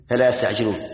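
يستعجلون said simply, ending on a silent n; unchanted يستعجلون, closed on bare n without a vowel; لفظ الآية. Shown as a demonstration. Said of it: "هذا لفظ الآية". (نطق يستعجلون بنون ساكنة دون ترتيل)

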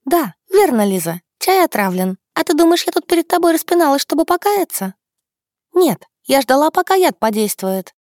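put-on high, piercing girlish chirp; shrill chirping. A narrator's reading. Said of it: "хихикнула и визгливо прощебетала".

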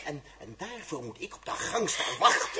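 laughing through the insults; scornful laughing jibes; mocking laugh. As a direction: ridicule her with a sneering chuckle. Mocking her outfit with laughter.

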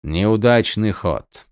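slow, flat and detached; emotionless. Acted. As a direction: say it coldly and slowly. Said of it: "бесстрастно проговорил он".

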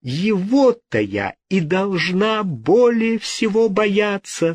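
cry out. A narrator's reading. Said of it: "вскричала Джиневра".

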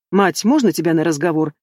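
usual speaking voice

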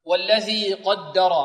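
slow "قدر" with heavy qaf and ra, light doubled dal. Shown as a demonstration. Teacher models the verse, heavy-light-heavy "قدر". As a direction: recite "قدر" as qawd-da-raw, measured. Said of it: "القاف مفخمة".

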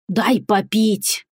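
toothless mumble, slow; gumming soft food. Acted. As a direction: mumble it like a toothless old man. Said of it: "прошамкал Кощей".

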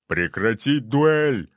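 slow, forceful shouted order; shouted command. A narrator's reading. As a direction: bark the order to stop. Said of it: "выкрикнул он".

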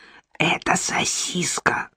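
slow stage whisper; loud whisper. A narrator's reading. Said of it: "громким шёпотом пояснил".

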